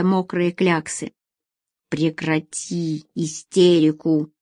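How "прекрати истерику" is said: slow, low, pressing each word; slow firm rebuke to the crying woman; said with pressure. Acted. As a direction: lean hard on every word. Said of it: "с нажимом выговорил Асим".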